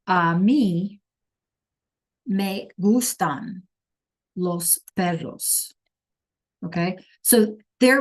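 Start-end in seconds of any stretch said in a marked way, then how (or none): 0.1-5.7 slow, careful Spanish sentence; slow model Spanish. Shown as a demonstration. Teacher showing a Spanish example slowly. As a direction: lay it out word by word. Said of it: "a sentence that says".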